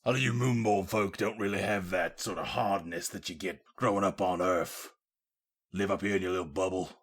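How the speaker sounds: bad British accent. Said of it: "this isn't a very good British accent".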